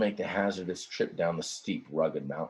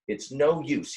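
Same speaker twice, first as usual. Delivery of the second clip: sighed; 6 semitones higher than usual. Acted. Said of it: "he sighed".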